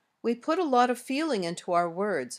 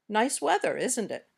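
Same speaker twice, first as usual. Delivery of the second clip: "isn't it" falls, making conversation; falling tag intonation. Shown as a demonstration. Teacher models making conversation, falling tag. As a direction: let "isn't it" drop as small talk. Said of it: "use this falling intonation".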